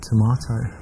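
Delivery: English "tomato", to-MAH-toh; English accent. Shown as a demonstration. Man showing off his accent to a date, English to-MAH-toh. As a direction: say "tomato" the British way, with an AH. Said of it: "with my English accent".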